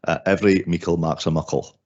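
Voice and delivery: broad Doric Scots saying; Doric accent. Shown as a demonstration. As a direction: Doric accent, northeast Scotland. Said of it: "I'll try my best Doric accent".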